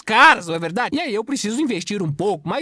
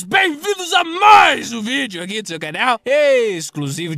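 excited; 3 semitones higher, 6 dB louder than usual. Acted. Energetic channel greeting.

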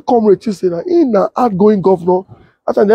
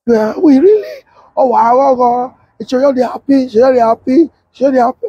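mock excited wife; 5 semitones higher than usual. Wife's joyful reaction retold.

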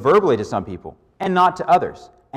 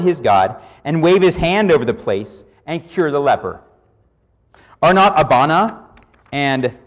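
furious Naaman. Retold or imitated. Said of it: "Naaman was furious and went away and said".

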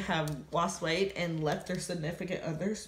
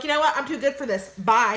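laughing, high, loud mock brush-off; hammed-up imitation of a girlfriend walking out; mock girlfriend dumping; 6 semitones higher, 7 dB louder than usual. Boyfriend mocking girlfriend leaving her, hammed-up and high. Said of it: "And you just be like".

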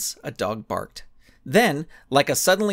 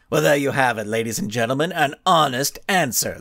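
grinning; 2 semitones lower than usual. Acted. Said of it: "the Blinding Skull grinned".

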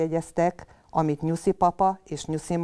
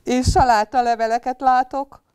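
funny little bunny voice; 7 semitones higher, 7 dB louder than usual. Acted. Greedy bunny's funny line.

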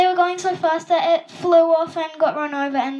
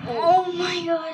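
shocked gasp; 5 semitones higher, slower than usual. Real, not acted. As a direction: cry out in shock. Shocked reaction to video fall.

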